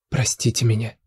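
sincere plea. Acted. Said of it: "искренне просила Света".

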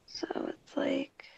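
hushed whisper so nobody wakes; whispering late at night; quiet at night. Real, not acted. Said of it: "I'm talking quiet because my roommates are asleep".

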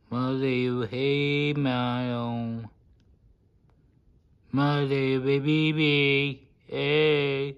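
high, loud sing-song cooing. Real, not acted. Cooing at his pet Milo, high and loud baby talk.

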